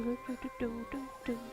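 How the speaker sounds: usual speaking voice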